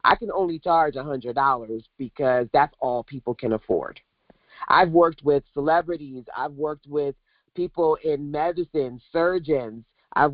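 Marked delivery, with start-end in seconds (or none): 0.0-4.0 lower, fast, lightly voiced old self; younger self. Recalling her twenties self to the chat, light mock voice. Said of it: "not Lil Shonda, who was like".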